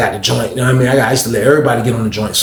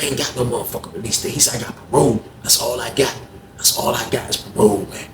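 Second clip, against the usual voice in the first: quiet; 7 dB quieter than usual. Retold or imitated. Cliff bitter, low.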